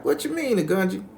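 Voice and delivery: high, loud puzzled question; taken-aback reply. Retold or imitated. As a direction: imitate a woman protesting an accusation. Doreen reacts to accusation.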